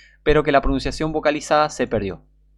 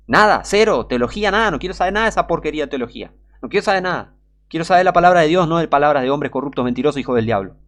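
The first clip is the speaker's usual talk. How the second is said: loud, high, indignant preaching; vehement rejection; 3 semitones higher, 5 dB louder than usual. Real, not acted. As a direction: throw it out angrily at raised pitch. Angry rejection of seminary theology. (rechazo indignado, fuerte y agudo)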